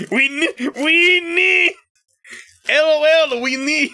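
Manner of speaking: high, loud excited yelling; shrieking with glee; excited shout. Real, not acted. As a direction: burst out in giddy shouts. Excited shout about candy.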